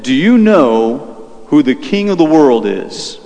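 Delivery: slow, drawn-out loaded question; retold quiz-like question, spaced out. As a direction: pose it slowly, word by word. Retells her loaded parting question.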